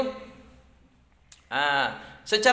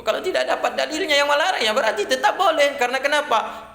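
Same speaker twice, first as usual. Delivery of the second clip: laughing; 9 semitones higher than usual. Real, not acted. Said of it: "laughing while explaining".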